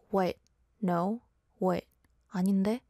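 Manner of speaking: short, sharp one-word retorts. Shown as a demonstration. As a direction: toss out curt little questions. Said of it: "Why do I sound so sharp?".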